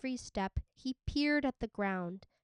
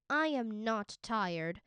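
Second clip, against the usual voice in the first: fierce; slower than usual. Acted. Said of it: "Ma said fiercely".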